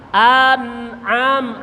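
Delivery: AN'AM with ain swallowed, lips closed on m. Shown as a demonstration. Teacher modelling ain and mim, swallowed ain. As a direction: swallow the middle of AN'AM, shut the m. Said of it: "Ain ditelan".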